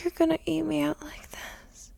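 breathy, barely voiced; aroused whisper. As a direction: whisper in anticipation.

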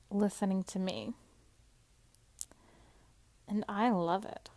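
normal talking voice

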